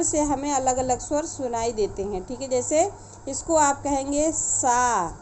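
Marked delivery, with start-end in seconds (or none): 2.5-5.2 सा said with tongue at the teeth, slow; dental sa. Shown as a demonstration. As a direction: say सा as a dental s, slowly. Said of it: "तीनों का उच्चारण स्थान अलग अलग है".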